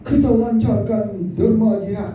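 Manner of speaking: high, loud rallying cry; rousing call. Retold or imitated. Preacher rallying the crowd to give, rousing call. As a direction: fire up the crowd for donations.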